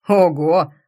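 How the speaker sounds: loud startled gasp of a word; gasping wow. Acted. Yulik seeing the headlines, a loud gasp. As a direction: let it burst out in shock. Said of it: "охнул Юлик".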